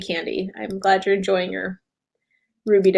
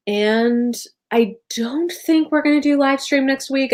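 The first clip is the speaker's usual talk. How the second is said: whispering; 6 semitones higher than usual. Real, not acted. Whispered aside to viewers.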